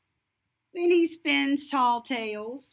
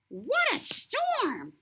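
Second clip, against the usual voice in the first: mole muttering; 12 semitones higher than usual. Acted. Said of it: "Mole mutters".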